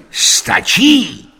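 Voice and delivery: high, loud one-word query; eager question. A narrator's reading. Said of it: "optal jsem se".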